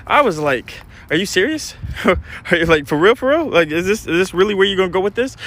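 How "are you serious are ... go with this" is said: incredulous questions, rising at the ends; retold disbelief. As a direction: replay being stunned, with a scoff. Retold disbelief at wife's denial.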